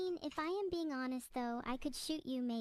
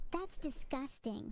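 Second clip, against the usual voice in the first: disgusted; slower than usual. Acted. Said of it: "You're disgusting".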